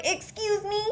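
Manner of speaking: high-pitched, affronted challenge; indignant. Retold or imitated. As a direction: act out offended disbelief. Acting out indignation at refusal.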